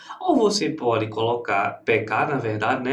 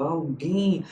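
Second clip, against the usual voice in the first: Alguém with a lengthened "guém"; Alguém sounded out to show the stressed ending; stress on the final syllable. Shown as a demonstration. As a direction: lean on the last syllable of Alguém. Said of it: "É a última".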